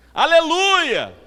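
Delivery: high, drawn-out holler back; loud stretched call in reply; answering shout. Retold or imitated. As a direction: shout back up to someone far away. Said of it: "Aí ele olhou assim".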